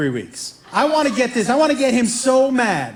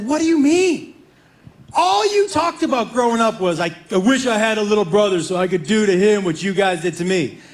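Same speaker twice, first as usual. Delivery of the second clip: incredulous brother. Retold or imitated. Brother voiced in the story.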